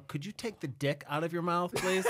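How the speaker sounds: mock complaint. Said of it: "I hear my voice on tape, and I'm like".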